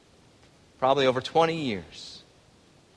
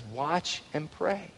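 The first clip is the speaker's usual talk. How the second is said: hushed command; 8 dB quieter, much slower than usual. Acted. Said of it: "And Jesus says".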